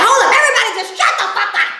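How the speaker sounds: laughing impression of the host shutting everyone up; Ray shutting it down. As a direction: imitate Ray barking at the room, half laughing. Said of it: "Ray's just like".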